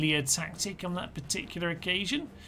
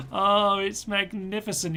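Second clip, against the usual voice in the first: delighted; 5 semitones higher, 5 dB louder than usual. Real, not acted. Admiring volley after laughing.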